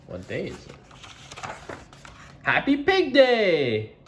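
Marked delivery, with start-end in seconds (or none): 2.4-4.0 high, loud and slow announcement; excited Piggy. Acted. Piggy announcing Happy Pig Day to Gerald, high and loud. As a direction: proclaim the big day. Piggy voiced in picture book.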